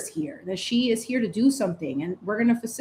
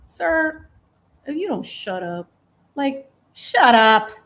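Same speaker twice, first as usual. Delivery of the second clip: louder, slow, drawn-out "shut up"; annoyed shut up; 3 semitones higher, 3 dB louder, slower than usual. Real, not acted. Telling the media message to stop, slow and annoyed. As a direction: shut it down with disgust.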